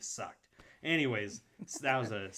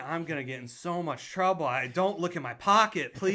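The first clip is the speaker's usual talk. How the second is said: high, loud, pleading inner voice; mock panic; 5 semitones higher, 6 dB louder than usual. Choking kid dreading trouble over his pocket, panicked plea. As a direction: plead loudly in hammed-up dread.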